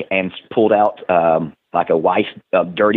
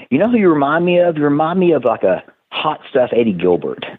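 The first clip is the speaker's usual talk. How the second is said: imitating Paul Heyman; 4 semitones higher than usual. Wrestler quotes Heyman's comparison in a higher mock voice. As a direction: ham up Heyman sizing the rookie up. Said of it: "Paul Heyman going".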